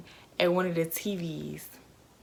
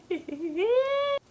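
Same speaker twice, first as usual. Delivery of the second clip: high drawn-out laugh. Real, not acted. Drawn-out sound after her remark.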